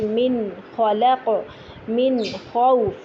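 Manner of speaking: slow clear noon in min; tajweed izhar. Shown as a demonstration. Teacher reciting clear noon for students. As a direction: pronounce the noon fully and clearly, slowly. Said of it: "جیسے کہ".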